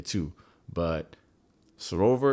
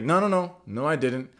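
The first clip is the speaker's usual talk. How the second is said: panicked denial; 6 semitones higher than usual. Retold or imitated. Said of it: "He's like".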